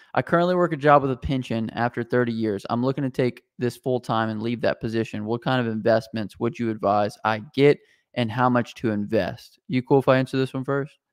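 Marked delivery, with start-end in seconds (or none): none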